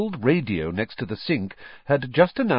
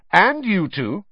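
loud, high rebuke; sharp scolding; 10 semitones higher, 6 dB louder, slower than usual. A narrator's reading. Mother glaring at her other two sons, scolding sharply. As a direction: round on the other culprits.

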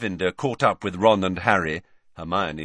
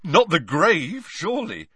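mock disbelief, high-pitched; snorting mockery; 9 semitones higher, 5 dB louder than usual. A narrator's reading. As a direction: cut in with a teasing jibe. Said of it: "said Ron with a snort".

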